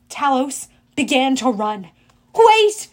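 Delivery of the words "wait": high, loud single cry; urgent, raised-pitch shout; yelled. A narrator's reading. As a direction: yell after someone running away. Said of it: "Zoe yelled".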